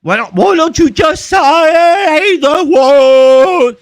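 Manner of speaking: very high, loud, stretched-out words; hammed-up slow-motion wail; mock slow talk. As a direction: drag every word out in loud mockery. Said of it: "If I talk real slow".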